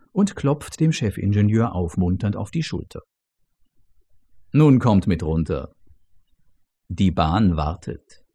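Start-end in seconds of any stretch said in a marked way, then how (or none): 4.5-8.2 ghostly mentor. Acted. The dead mentor beckons.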